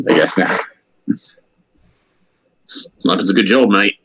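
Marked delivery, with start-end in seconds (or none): 2.7-4.0 lightly mocked Australian sniper; Australian accent. Joking about Australian snipers in games, Australian accent.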